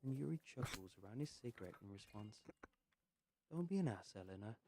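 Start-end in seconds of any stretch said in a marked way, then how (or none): 3.5-4.5 half-hearted telling-off; half-hearted chiding. Acted. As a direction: tease her for being rude, without meaning it. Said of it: "Charlie chides".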